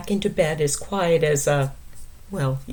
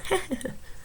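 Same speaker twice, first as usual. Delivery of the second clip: quavery little laugh; 14 semitones higher, 9 dB quieter than usual. Acted. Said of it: "He laughed a little".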